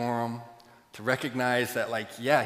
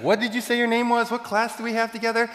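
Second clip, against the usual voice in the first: eager Matt; 12 semitones higher, 6 dB louder than usual. Retold or imitated. Matt eagerly asks about admirer.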